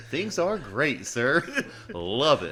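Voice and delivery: loud, overeager yes-man; mock enthusiasm. Employee to corporate at a roundtable, fake-cheery enthusiasm. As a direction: oversell it to the boss, high and loud.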